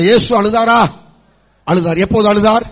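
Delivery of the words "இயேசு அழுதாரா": slightly raised, firmer question; a bit louder. Shown as a demonstration. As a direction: put a little more sound into it. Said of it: "கொஞ்சம் சவுண்டா சொல்லுங்க". (கொஞ்சம் சத்தமாக)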